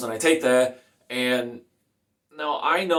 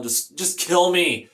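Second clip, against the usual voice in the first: high-pitched, desperate mock yell; retold yelling; 5 semitones higher than usual. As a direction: re-enact yelled begging without full force. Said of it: "screaming and I'm yelling".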